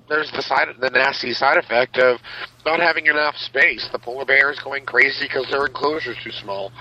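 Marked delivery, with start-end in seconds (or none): 3.9-6.7 tinny, like talking in a tin can; inside a metal tank. Real, not acted. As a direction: sound boxed in and metallic. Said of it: "That really does sound like a tin can".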